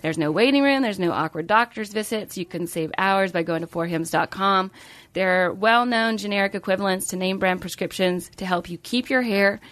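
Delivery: smooth sponsor ad voice; ad read. Acted. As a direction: read it like a podcast ad. Reads sponsor ad.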